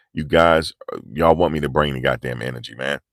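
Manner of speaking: ordinary talk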